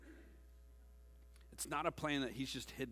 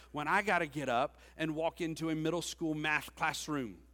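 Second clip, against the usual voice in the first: usual speaking voice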